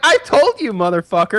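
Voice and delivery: high, loud mock fury; mock angry retort. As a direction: spit it back at the cashier.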